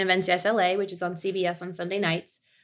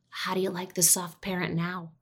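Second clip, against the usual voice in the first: passive aggressive whisper; 6 dB quieter than usual. Retold or imitated. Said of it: "aggressively whisper in his ear".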